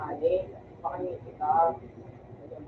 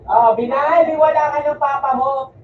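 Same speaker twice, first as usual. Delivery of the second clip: loud outburst; 3 semitones higher, 7 dB louder than usual. Real, not acted. Loud outburst during the game.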